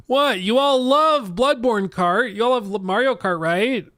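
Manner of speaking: high, loud indignant protest; mock outrage. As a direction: act scandalized at the chat.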